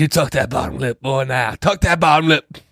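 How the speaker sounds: a hint of a stern father, rising. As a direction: order the boy like a strict dad.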